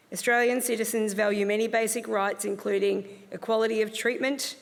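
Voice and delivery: measured, even ceremonial reading; formal speech. Real, not acted. Officiant welcoming new Australian citizens, formal speech. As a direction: read it out as an official address.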